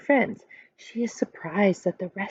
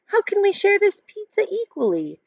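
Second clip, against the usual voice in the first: put-on higher child's question; curious kid; 11 semitones higher than usual. A narrator's reading. Seth asks his friends, lightly voiced child. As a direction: ask it brightly, like a kid. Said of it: "Seth asks".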